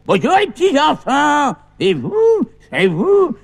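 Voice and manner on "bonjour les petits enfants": shouted greeting. Shown as a demonstration. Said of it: "je vais dire".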